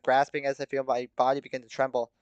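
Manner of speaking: ordinary delivery, nothing marked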